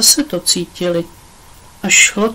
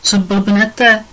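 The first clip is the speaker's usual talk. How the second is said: volala. A narrator's reading. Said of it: "volala za nimi třináctiletá Róza".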